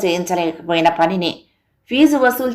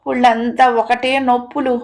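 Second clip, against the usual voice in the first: achy complaint; 4 semitones higher than usual. Acted. Worn-out wife to husband about her aches, achy complaint. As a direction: complain as if aching all over.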